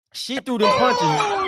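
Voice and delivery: high, slow, laughing through the words; can't stop laughing at the punches; laughing while talking. Real, not acted. Rewatching fight, cracking up.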